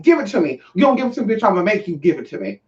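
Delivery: mildly pushy imitation of a stud; aggressive demand. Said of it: "they so aggressive".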